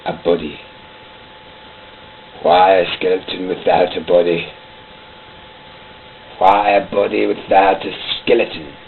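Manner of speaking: ranting dictator speech; tyrant's voice. Acted. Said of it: "Yes, this is the voice".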